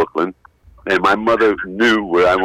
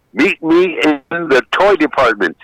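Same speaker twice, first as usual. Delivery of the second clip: parent voice; 6 semitones higher, 4 dB louder, slower than usual. Retold or imitated. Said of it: "They just say".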